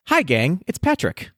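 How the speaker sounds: high singsong leprechaun voice; a hint of a cheery leprechaun; gay leprechaun. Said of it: "I sounded like a gay leprechaun".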